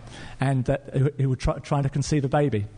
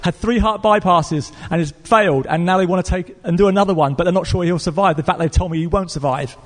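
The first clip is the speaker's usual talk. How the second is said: raised pitch easing back down, urgent; tearful pleading; 3 semitones higher than usual. Retold or imitated. Woman on the phone about her dying father, imitated tearful pleading. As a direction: pour out a distraught caller's plea. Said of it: "She was crying down the phone".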